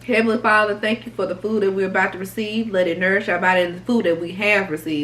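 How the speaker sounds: earnest mealtime prayer, fading at the end; saying grace. Acted. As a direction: pray over the food, softening into the amen. Says grace before eating.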